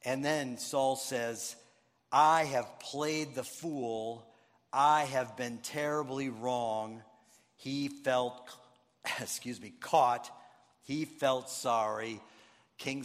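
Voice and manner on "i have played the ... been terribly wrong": contrite confession. Retold or imitated. Saul confesses his folly.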